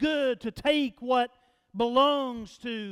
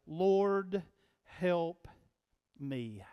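softer, lower, with pauses between words; hushed prayer; 5 semitones lower, 6 dB quieter, much slower than usual. Retold or imitated. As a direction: let each word sink away quietly. Repeating the short prayer slowly.

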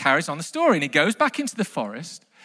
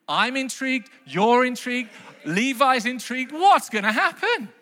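mock suspense; 5 semitones higher than usual. Builds suspense over the story.

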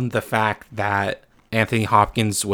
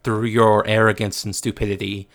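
stern Odin voice; 5 dB louder than usual. Retold or imitated. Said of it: "and he says".

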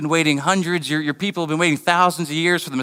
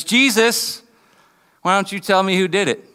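higher-pitched jeering challenge; mocking taunt; 4 semitones higher than usual. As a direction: taunt him like a bully. Acted attacker taunting Jesus after hitting.

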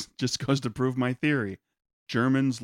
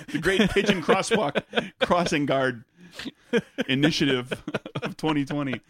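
mock grand announcement; 3 semitones higher than usual. Grand official title.

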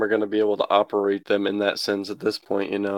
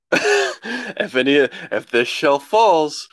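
high, slow, drawn-out doomsday warning; mock paranoid father; 4 semitones higher than usual. Quoting his paranoid father about the gun shelf, mock doom voice. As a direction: ham up a jittery dad predicting the end.

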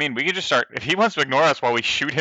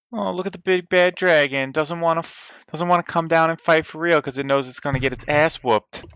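higher-pitched mocking taunt; 4 semitones higher than usual. Player taunting the dragon with vicious mockery, mocking. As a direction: jeer at a big bad foe. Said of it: "in its head, I wanna say".

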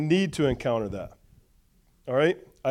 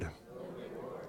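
whisper; 23 dB quieter, slower than usual. Shown as a demonstration. Preacher echoing the congregation's call-back, whispered. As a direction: whisper "No reward." with no voice at all. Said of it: "Everybody say".

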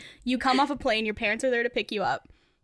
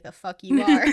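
mock angry dad; 8 dB louder than usual. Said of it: "he'd be like".

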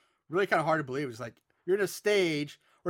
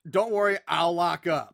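mildly raised, sarcastic call; sarcastic shout; 5 dB louder than usual. Acted. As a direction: toss it out loudly, with sarcasm. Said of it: "Artie shouts out sarcastically".

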